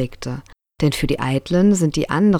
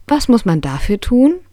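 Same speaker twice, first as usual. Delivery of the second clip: put-on high eager child's question about "tun"; curious little prince; 8 semitones higher, 3 dB louder than usual. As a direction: ask like a wide-eyed little boy. (neugierig hohe Kinderfrage)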